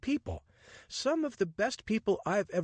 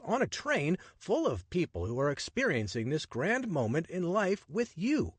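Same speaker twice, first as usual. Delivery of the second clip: higher, sweeping, wonder-filled pitch; enthusiastic adventurer; 10 semitones higher than usual. Acted. Richard urging the woman to put her book down, rapturous. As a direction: sell her the magic of Egypt.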